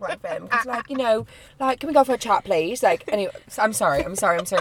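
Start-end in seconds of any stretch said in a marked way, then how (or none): 1.8-2.8 put-on British accent. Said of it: "we talk in British accents".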